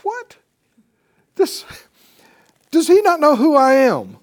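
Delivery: high, loud, indignant outburst; outraged. Acted. Naaman insulted at Elisha's door, loud and outraged. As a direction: sputter in offended disbelief. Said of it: "He was like".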